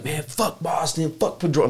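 high-pitched mock heckler; imitated crazy heckling. Rowdy fan cussing out Boston near a dad, mock heckling. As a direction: heckle wildly, without full volume. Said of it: "just going crazy".

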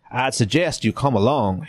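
lightly voiced Southern officer; lightly put-on Southern accent; Frank Underwood accent. Officer pressing captive to come along, light Southern accent. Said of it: "That's a Frank Underwood accent".

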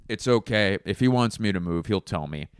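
no worries at all; unbothered helper. Retold or imitated. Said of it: "And he goes".

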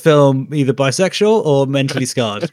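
high, loud playful musing; mock breathless viewer. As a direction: ham up the dilemma. Imagined viewer thoughts.

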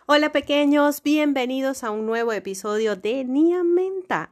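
put-on kids show host. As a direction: greet the little ones like a kids TV host. Greeting children on the show.

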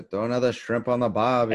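a light Australian twang on the barbie line; Australian accent. Shown as a demonstration. Asking Stu for an accent, a mild Australian accent. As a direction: toss off a mock Aussie barbie phrase. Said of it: "can you do an accent well".

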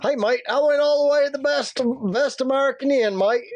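badly faked Aussie complaint; bad Australian accent. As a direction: play an Australian tourist with a poor accent. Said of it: "I know I don't sound Australian".

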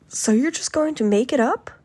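indignant imitated question; indignant senator. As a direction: challenge them in mock outrage. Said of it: "very, very angry".

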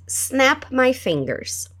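very slow, a bit soft; slow echo model; slow repeat. Shown as a demonstration.

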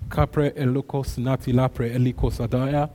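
murmured tongues prayer, steady; praying in tongues. Real, not acted. Preacher leading the church to pray in tongues. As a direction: pour out the syllables in prayer. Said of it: "let's pray in tongues for a minute".

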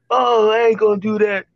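high-pitched, dismissive friend imitation; mock dismissive friend. Acts out friend brushing off warning.

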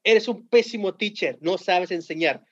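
imitating a student's angry yell, high and drawn out; slow, high-pitched mock scolding at a teacher; grito retado. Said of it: "y le grita". (gritándole al maestro, imitación aguda y lenta)

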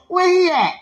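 playful voice leaping high on the ends; hammed-up excited heart; talking heart. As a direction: jump up high and eager, with laughter. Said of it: "My heart like".

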